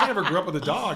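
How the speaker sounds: half-laughing objection; laughing protest. Retold or imitated. Retold reply to wife.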